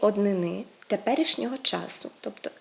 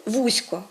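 вузько stressed on the first syllable, ВУЗЬ-; adverb stress; 3 dB louder than usual. Shown as a demonstration. Teacher contrasts adverb with adjective, вузько stressed on first syllable. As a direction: hit the opening of вузько. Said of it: "мають такий наголос".

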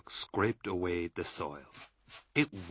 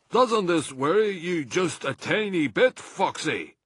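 higher, louder fretful question; worried Badger; 10 semitones higher, 7 dB louder than usual. A narrator's reading. Badger fretting to Mr Fox, worried question. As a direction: ask it with worry.

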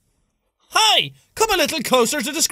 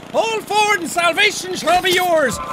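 mock preacher. Mock sermon to players.

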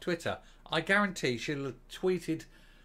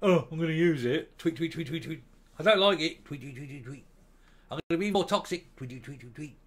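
mock lefty voice. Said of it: "So it'll be".

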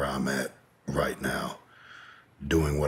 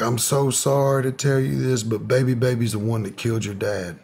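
retold crying; 8 semitones higher, 4 dB louder than usual. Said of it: "starts crying".

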